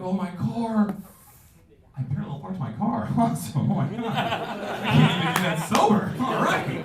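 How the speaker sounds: high, loud laughing glee; thrilled and amazed at yourself; laughing high mock delight; giddy disbelief. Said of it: "it's like".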